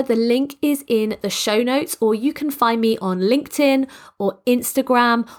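hoarse and stuffed up with a cold; croaky congested voice. Real, not acted. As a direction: talk through a croaky, congested throat. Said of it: "you have coped with my croaky, congested voice".

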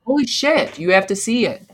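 high, eager and urgent; excited. Real, not acted. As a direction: gush about the movie. Excited movie recommendation.

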